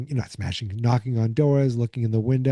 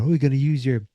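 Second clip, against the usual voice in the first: mocking; 3 semitones higher than usual. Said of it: "she's, like, mocking her".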